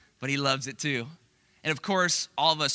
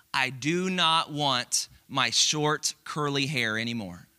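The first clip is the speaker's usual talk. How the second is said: put-on toddler's sad words; slower than usual. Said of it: "here's what she said".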